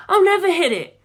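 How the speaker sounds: high, loud frantic shout. A narrator's reading. Navigator shouting at the pilot in protest, loud. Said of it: "Jim shouted".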